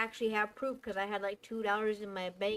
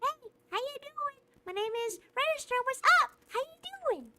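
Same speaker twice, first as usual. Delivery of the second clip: put-on much higher, bouncy little kid voice; high cartoon kid greeting; 13 semitones higher, 3 dB louder than usual. Shown as a demonstration. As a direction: chirp it like a friendly cartoon kid. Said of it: "this is my voice acting ... kid voice".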